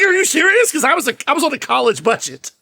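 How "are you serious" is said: high, louder incredulous question; retold disbelief. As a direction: act out being taken aback. Retold reaction at sandwich counter.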